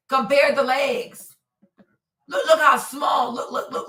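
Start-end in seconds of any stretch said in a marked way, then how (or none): 2.3-3.3 excited shout. Real, not acted. Pointing at the photo. 3.3-3.9 strained whisper of a voice; losing voice. Real, not acted. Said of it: "I'm losing my voice".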